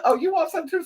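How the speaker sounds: high-pitched taunting question; high, mock-threatening to the dog; mock challenge. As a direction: squeak it up, daring the dog. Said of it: "And I said".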